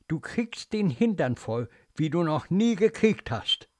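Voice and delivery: measured echo of the nurse's threat; restrained, ominous quoted scolding; remembered threat. Acted. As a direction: replay the threat as it sinks in. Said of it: "Tief gräbt dieser Satz sich ein".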